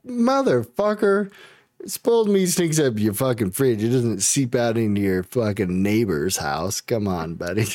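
imitating himself scolding the killer; exasperated scolding. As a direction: call out the lie like a fed-up buddy. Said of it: "And I was like".

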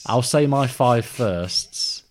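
slow, slurred "I'll say my five firsts"; "firsts" dragged out and smeared together; slurred speech. Real, not acted. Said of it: "I'm slurring my words".

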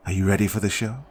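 lightly voiced, sugary calm host; a hint of a smug hostess calming a captive; Judy's voice. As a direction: soothe them falsely, in control. Narrator voices Judy.

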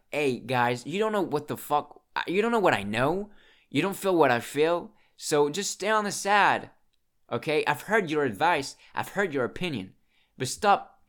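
retold fed-up protest, rising in pitch and volume; exasperated retort. Telling friends to stop giving advice, exasperated. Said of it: "because I was like".

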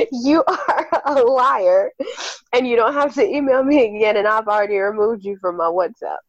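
put-on British accent fading back to plain. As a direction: start British and let the accent slip away. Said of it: "'cause I lost my accent, like, at the very end".

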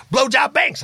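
high, loud, a bit proud; mock girl's reply. Girl telling Lofty her old nickname, high and proud. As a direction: toss it off like a cheerful girl.

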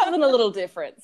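laughing. Real, not acted. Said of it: "repeated phrase".

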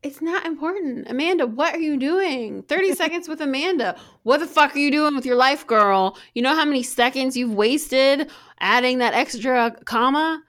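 loud teasing rant at a friend; mock scolding. Mock lecture to Amanda.

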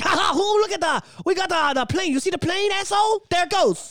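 taunting pilots in a mock Asian accent. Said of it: "Don't get too mad about my accent".

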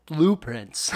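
gasp, then an understated line reading; mock awe. Podcaster mocking Isla Fisher's movie line, mock awe. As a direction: gasp before an awestruck quote. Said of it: "and she goes".

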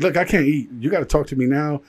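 retelling his panic at the restaurant, pleading to know; panicked. Retold or imitated. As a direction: beg her to talk, panicking. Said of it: "So I'm freaking out".

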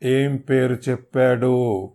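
harsh demand. Acted. Hero pressing for the name, slow harsh demand. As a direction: ask harshly, each word hard. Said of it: "పెదవులు బిగించి కటువుగా అడిగాను".

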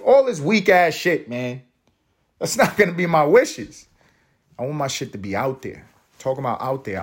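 normal talking voice

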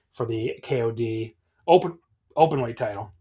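hiccup breaking the words. Real, not acted. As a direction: talk through a hiccup. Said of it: "I think I hiccuped there".

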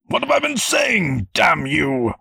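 high-pitched exasperated shouting; furious, shrieked outburst; losing all patience. A narrator's reading. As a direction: yell it, noble composure gone. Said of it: "losing his noble demeanor along with his patience".

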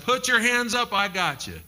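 high, loud, slow reassuring divine voice; calm, booming God promising safety. Acted. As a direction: speak as God comforting his child, slowly. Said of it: "God said".

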